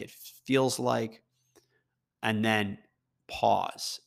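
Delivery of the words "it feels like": "feels" drawn out slowly. Shown as a demonstration. Listing the phrases, last one slow and deliberate. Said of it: "use the word".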